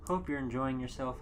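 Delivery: normal talking voice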